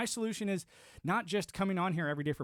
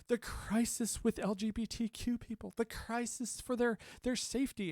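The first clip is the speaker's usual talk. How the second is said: mock newsreader; 7 semitones higher, 4 dB quieter than usual. Mocking media crisis talk.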